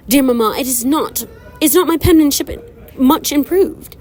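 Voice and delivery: high, slow, preening Southern belle voice; a vain sister boasting to her mother in a letter; prissy Hattie. Acted. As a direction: read it like a vain girl showing off.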